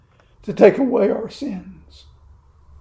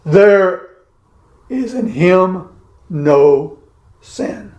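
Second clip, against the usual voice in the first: There punched, then spaced out; slow deliberate emphasis; emphatic; slower than usual. Shown as a demonstration. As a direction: stress There and no. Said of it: "this is emphatic".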